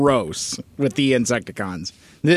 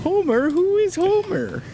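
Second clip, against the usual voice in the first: high goofy voice. Acted. Silly impression line.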